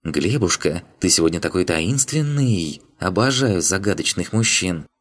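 breathy hollywood starlet. Acted. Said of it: "с придыханием прошептала".

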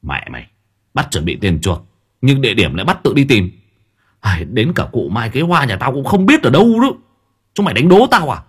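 rising from muttered curse to a loud outburst; angry cursing. Acted. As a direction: curse them, building to a yell. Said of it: "Tôi bực mình chửi". (chửi bực tức, càng lúc càng to)

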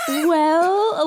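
put-on English-accented start. Recalling a player's botched character entrance, tentative English accent. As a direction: begin as if an English accent is coming. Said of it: "believe that an English accent is about to come out".

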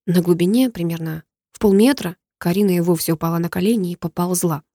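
ordinary delivery, nothing marked

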